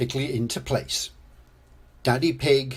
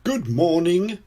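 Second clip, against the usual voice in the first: higher, louder shopkeeper's hello; beaming greeting; 6 semitones higher, 5 dB louder than usual. A narrator's reading. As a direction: greet customers with a big smile. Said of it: "beams Mister Fox".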